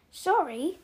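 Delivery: incredulous bark with rising pitch. A narrator's reading. Giant throws the boy's apology back, barking. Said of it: "barked Hagrid".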